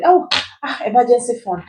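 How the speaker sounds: put-on sigh of reluctance; mock dismay. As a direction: lightly imitate someone balking. Mimics everybody reacting to the advice.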